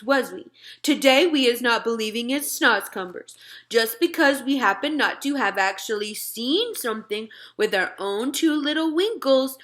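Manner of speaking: put-on friendly giant talking to a little girl; BFG giant voice. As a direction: play the big friendly giant, earnest and muddled. BFG voice held in dialogue.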